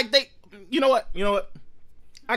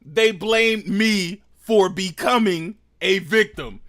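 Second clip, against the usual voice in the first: mocking repeat; 3 semitones lower, slower than usual. Mocking repeat of clip, slowed.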